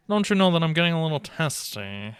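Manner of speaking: hammed-up huffy question; mock testy. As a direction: tease them with playful irritation.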